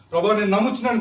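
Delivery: the second plea pushed harder. Retold or imitated. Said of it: "గట్టిగా కేకలేసి".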